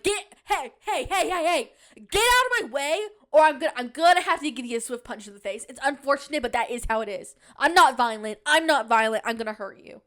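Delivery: mock angry threat. Vlogger imitating her angry thoughts at people in the outlet store, mock yell. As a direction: pretend to threaten shoppers in your way, half laughing. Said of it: "making me really angry".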